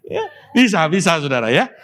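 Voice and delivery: words laughed out high; laughing while conceding the point. Real, not acted. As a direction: chuckle through the words. Preacher laughs at own joke.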